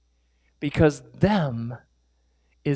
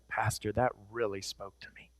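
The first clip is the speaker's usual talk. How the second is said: quiet, lower earnest thanks; soft congregant; 8 semitones lower, 13 dB quieter than usual. Retold or imitated. Congregants thanking the pastor at the door, softly. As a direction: murmur sincere thanks. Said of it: "they were like".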